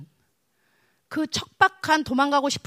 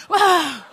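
loud, high cry of frustration; acted wail; 4 semitones higher, 9 dB louder than usual. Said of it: "울고 싶어요".

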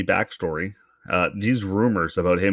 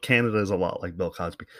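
quicker, quieter run-through; quick repeat; 2 semitones lower, 4 dB quieter, faster than usual. Shown as a demonstration. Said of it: "what the fuck is this guy talking about".

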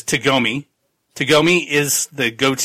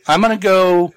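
nervous excited promise; 4 semitones higher than usual. Retold or imitated. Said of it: "He's like".

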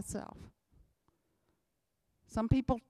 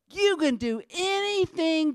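said pretty; 7 semitones higher, 4 dB louder than usual. Shown as a demonstration. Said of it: "you can say it all pretty like".

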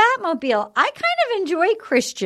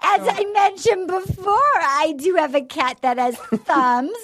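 lightly hammed formal announcement, starting high; mock awkward dater; 4 semitones higher than usual. Joking dater revealing a cat, mock-formal voice. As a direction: open high, like a mock-earnest oddball.

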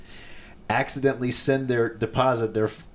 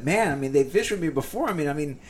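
higher-pitched, amused incredulity in imitation; retold laughing disbelief; 6 semitones higher than usual. Fishing guide retelling the deposit mix-up, imitated laughing disbelief. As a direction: imitate someone cracking up in disbelief. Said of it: "he's laughing his freaking head off".

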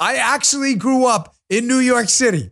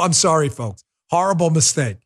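usual speaking voice

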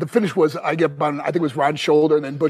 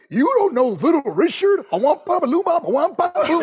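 imitating Dusty; 11 semitones higher than usual. Booker Dusty quizzing the young wrestler, high mock crooning. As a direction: mimic the boss crooning a singer's song in disbelief. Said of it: "He goes".

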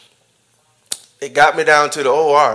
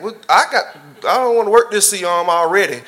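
attitude; 5 semitones higher, 3 dB louder than usual. Retold or imitated. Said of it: "Now I'm getting attitude".

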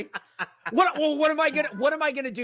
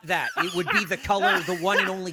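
laughing sarcasm; faster than usual. Real, not acted. Sarcastic mock self-blame, laughing.

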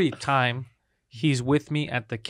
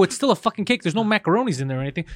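exasperated rant; 2 semitones higher than usual. Retold or imitated. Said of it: "I'm just getting all angry".

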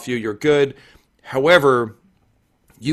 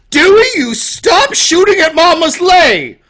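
high, loud motherly yell; scolding mother; 12 dB louder than usual. Acted. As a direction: bawl out your son shrilly. Mother scolds her son.

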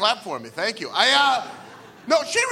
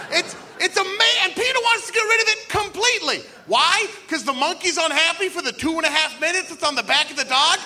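indignant rant; 6 semitones higher than usual. Acted. Mock rant at monkey.

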